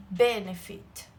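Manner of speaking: benefit drawn out slowly, weight on the first syllable; stress on BE. Shown as a demonstration. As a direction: stretch benefit, leaning on "be" and letting "fit" fall away. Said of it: "A minha sílaba tônica é B". (benefit devagar, com força no "be" inicial)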